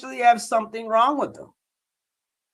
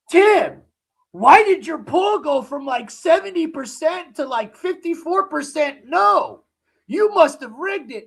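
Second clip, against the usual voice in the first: higher-pitched mock accusing questioner; accusing viewer; 5 semitones higher than usual. Viewer challenging Tim over the poll, mock accusing. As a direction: lightly imitate an indignant doubter challenging the poll. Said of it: "someone came in here and said".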